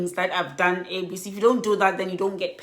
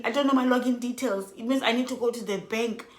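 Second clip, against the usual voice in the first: ordinary talk, nothing marked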